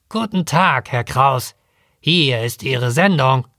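lightly voiced rasping parrot; a hint of a rattling mail parrot. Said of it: "Schnarrend sagte er".

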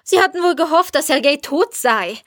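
high, angry reproach; indignant accusation. A narrator's reading. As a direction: accuse him in outrage. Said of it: "fuhr Jelena auf".

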